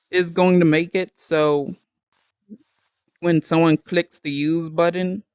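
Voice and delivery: talking through hiccups; hiccuping between words. Real, not acted. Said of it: "I'm hiccuping".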